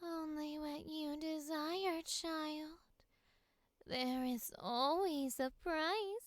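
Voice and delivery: breathy high villain read; high-pitched sultry. Shown as a demonstration. Actor tries the high-pitched take for her co-host. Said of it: "like, high pitched".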